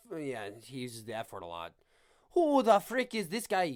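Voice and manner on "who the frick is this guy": bad, cheap, stereotyped put-on Irish accent. Practicing an impression of a fighter: Conor McGregor Irish accent. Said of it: "that still sounds Lucky Charms".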